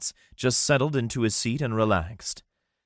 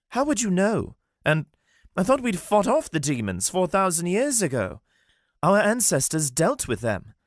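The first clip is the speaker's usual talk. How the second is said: much higher, exasperated disbelief; dismayed Armand; 12 semitones higher than usual. Acted. Armand despairing over Wolf's progress. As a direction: lament being left behind.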